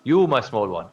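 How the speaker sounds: lightly voiced friendly giant. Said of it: "He goes".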